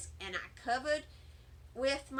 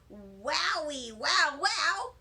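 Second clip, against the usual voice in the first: amazed; 4 dB louder, much slower than usual. Acted. Amazed at the magic powder.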